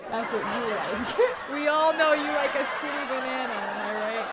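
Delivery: real laughter through the words; laughing too hard to keep it steady. Real, not acted. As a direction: tease while cracking up. Laughing at own banana joke.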